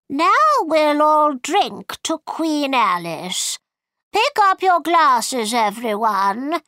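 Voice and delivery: high, drawn-out queenly announcement; White Queen. A narrator's reading. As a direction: call a toast in a high, put-on voice. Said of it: "The White Queen said".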